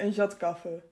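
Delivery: jat kaffe in broad plat Flemish; broad Flemish dialect. Shown as a demonstration. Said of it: "wij zeggen gewoon op zijn plat".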